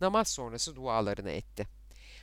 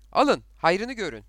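loud, high cry to a crowd; shouted; 5 semitones higher, 9 dB louder than usual. Acted. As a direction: call it out sharply, raised in pitch. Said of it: "diye bağırdı". (yüksek, tiz sesle bağırarak)

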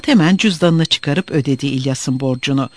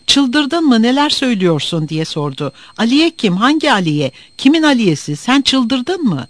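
shocked outburst; 7 semitones higher than usual. A narrator's reading. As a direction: yell it in disbelief. Murat shocked, shouting at friend.

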